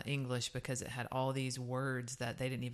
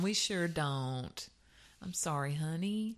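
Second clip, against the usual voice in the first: southern polite tone; 2 semitones higher, slower than usual. Retold or imitated. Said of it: "That's the way they say it in this tone".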